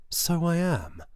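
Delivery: sudden high and loud; manic outburst. A narrator's reading. Narrator admitting his nerves, high and loud. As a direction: blurt it, wild-eyed.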